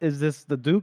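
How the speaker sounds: ordinary delivery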